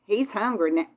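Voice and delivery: Texas twang on He's hungry now; southern accent. Real, not acted. She hears her own Southern accent come out to viewers. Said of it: "did you hear that southern accent".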